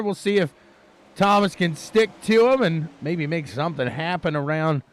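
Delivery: energetic race commentary; live play-by-play. Real, not acted. Commentator following the leaders on track, lively race call. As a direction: call the chase for the lead as it happens.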